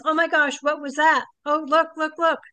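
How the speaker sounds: quick, call attention to the sky; excited pointing out. Retold or imitated. Friend at campfire sees UFO, mildly excited.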